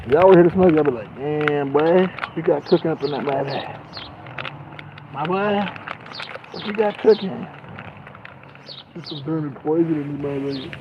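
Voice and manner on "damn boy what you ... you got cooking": higher, impressed mock voice; imagined friend. Vlogger imagining viewers smelling his weed, lightly higher impressed voice. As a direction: marvel at the smell.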